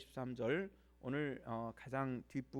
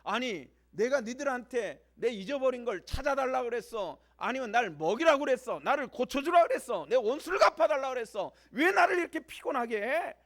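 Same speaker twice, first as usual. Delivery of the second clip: high, very loud indignant shouting; angry outburst; 9 semitones higher, 14 dB louder than usual. Acted. Job lashing back at Eliphaz, furious high-pitched shouting. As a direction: hurl each challenge at full volume, climbing in pitch. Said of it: "화가 나가지고 엘리바스에게 막 대드는 겁니다".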